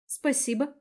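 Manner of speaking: small squeaky thanks. Acted. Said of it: "пропищала я".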